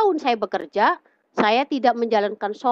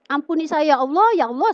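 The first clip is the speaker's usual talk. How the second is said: raised, pleading retold prayer; frightened prayer; 6 semitones higher, faster than usual. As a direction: beg God for forgiveness, voice pitched up. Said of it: "karena saya takut".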